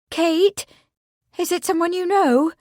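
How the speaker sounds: high, anxious questioning. A narrator's reading. Bea asks Kate about the dead man, anxiously. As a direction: ask worriedly, voice lifted high. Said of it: "Bea called anxiously".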